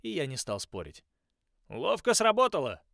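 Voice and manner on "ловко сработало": loud, high praise; praising. A narrator's reading. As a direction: praise the trick warmly. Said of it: "похвалил мистер Зорки".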